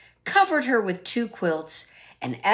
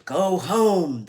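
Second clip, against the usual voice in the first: squalling wind; 4 dB louder than usual. Acted. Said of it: "the wind squalled".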